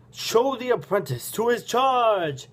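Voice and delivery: high, slow booming order; gruff booming voice. A narrator's reading. Father ordering his son from the platform, gruff and booming. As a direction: call it down slowly from above. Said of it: "A gruff voice booms above you".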